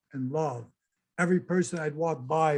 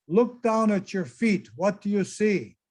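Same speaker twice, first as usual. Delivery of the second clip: put-on Arabic accent; 3 semitones higher than usual. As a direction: imitate a guide's light Arabic accent, measured. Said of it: "In his Arabic accent".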